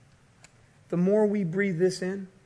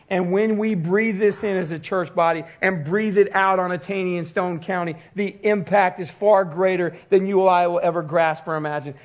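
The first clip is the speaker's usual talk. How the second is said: emphatic, raised sermon climax; forceful preaching. Real, not acted. Preacher urging church to breathe in scripture, forceful preaching. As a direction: drive each phrase home to the congregation.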